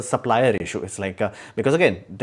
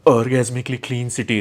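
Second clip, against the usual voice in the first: 1 mock admiring tourist; 3 dB louder than usual. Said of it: "It could look".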